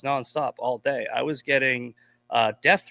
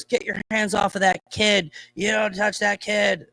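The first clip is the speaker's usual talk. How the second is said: higher-pitched, mock-outraged scolding of a stranger; indignant bystander; 6 semitones higher than usual. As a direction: imitate a self-righteous woman yelling at him. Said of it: "she goes".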